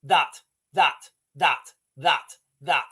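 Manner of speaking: mock soldier's measured, separated words; matter-of-fact military. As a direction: tick each word off separately, low. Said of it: "and the military just going".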